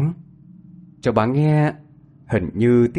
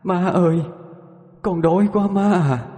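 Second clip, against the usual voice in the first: higher, slow mournful ghost's plea; wailing ghost; 8 semitones higher than usual.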